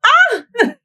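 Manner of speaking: a very high, sudden shriek of surprise; startled shriek. Retold or imitated. Retelling being grabbed at the club, a piercing shriek. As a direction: shriek like someone just grabbed you.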